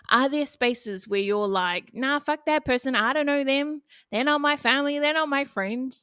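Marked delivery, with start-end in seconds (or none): 1.9-6.0 mildly higher dismissive voice; lightly acted brush-off of a stranger. Speaker imitates someone refusing kindness to people they don't know, dismissive. Voicing an unkind, dismissive attitude.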